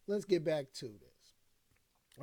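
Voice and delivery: "Let's get back to this" stretched out slowly, every word drawn long; slow, drawn-out repeat. Shown as a demonstration. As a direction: slowly drag out "Let's get back to this" to pull the stream back on track. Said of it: "But anyway, let's get back to this".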